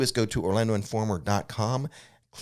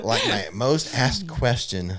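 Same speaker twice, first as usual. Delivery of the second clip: slow, higher, with a laugh in the words; laughing through it; 5 semitones higher, 4 dB louder, slower than usual. Real, not acted. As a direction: laugh as you say it. Laughing after the Nikki joke.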